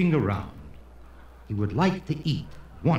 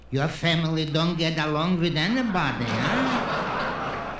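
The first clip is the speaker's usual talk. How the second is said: needling Jewish retort; 3 semitones higher than usual. Acted. Jew answers the man boasting of his family, needling. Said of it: "And the Jew says".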